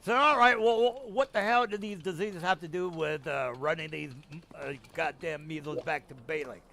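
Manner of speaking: lightly voiced contemptuous Templar; sadistic Templar. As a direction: sneer at the measles like a cruel soldier. Templar answering the inspectors.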